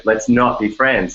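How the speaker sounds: NOT pushed up in pitch, slow phrase; stress on NOT. Shown as a demonstration. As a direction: lean on "not" and lift the note. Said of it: "The emphasis on the not".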